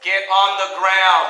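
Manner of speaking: slow, firm order; firm slow command. Real, not acted. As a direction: bark it slowly. Officer ordering suspect down.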